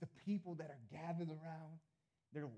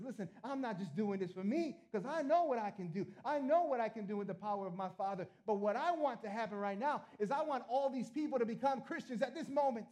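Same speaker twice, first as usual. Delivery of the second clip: raised, building to a high loud cry; impassioned preaching; 6 semitones higher, 6 dB louder than usual. Acted. Preacher as Jesus wanting people converted, impassioned and loud. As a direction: build in pitch and volume to the last word.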